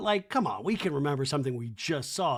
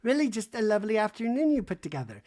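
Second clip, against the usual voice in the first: mock Jennifer; 7 semitones higher than usual. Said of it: "Jennifer goes".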